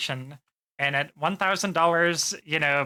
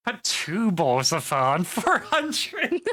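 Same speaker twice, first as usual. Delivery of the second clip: laughing; 3 semitones higher, slower than usual. Real, not acted. Laughs mid-line at chat's joke.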